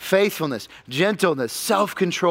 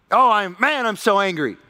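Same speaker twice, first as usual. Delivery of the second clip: mock worldly excuse; 3 semitones higher than usual. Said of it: "the world tries to justify".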